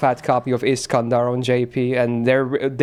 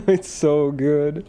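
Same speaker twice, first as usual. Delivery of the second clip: laughing; 2 semitones higher, much slower than usual. Real, not acted. Laughing at the funny edit.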